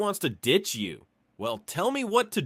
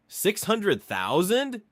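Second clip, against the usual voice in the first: shocked echo; 5 semitones higher, slower than usual. Acted. Friend shocked by huge dowry.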